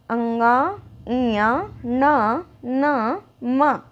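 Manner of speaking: अंगा, इया, ना through the nose; nasal drill. Shown as a demonstration. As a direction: let each syllable ring in the nose. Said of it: "आवाज़ कहाँ से आ रही है".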